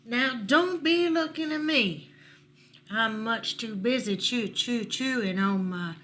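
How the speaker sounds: loud, stumbling porcupine voice; sputtering porcupine. Acted. Porcupine chewing an antler refusing to go, sputtering. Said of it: "sputtered the porcupine".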